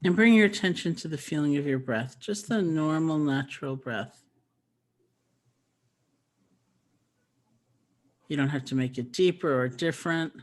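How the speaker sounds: calm, even voice with long restful pauses; unhurried meditation teacher's voice; guided meditation. Acted. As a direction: gently guide listeners, leaving space between phrases.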